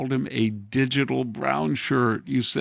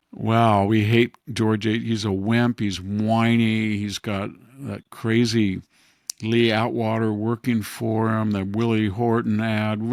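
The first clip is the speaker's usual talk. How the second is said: 1 mocking the left; 3 dB louder than usual. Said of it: "and they said".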